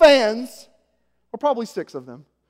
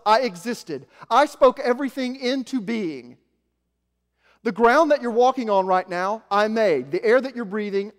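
a commanding, louder voice of God, slow in places; 4 dB louder than usual. Acted. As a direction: speak as the Creator, with weight. Preacher voices God speaking.

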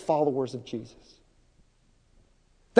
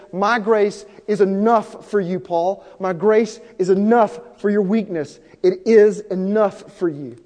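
voicing Jesus; 3 semitones higher, 5 dB louder than usual. Jesus voiced in sermon.

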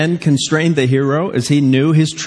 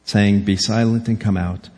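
lower-pitched, measured reading aloud; scripture reading; 5 semitones lower, 3 dB quieter than usual. Real, not acted. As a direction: read the passage out soberly, letting it sink softer. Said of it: "Let me read it to you".

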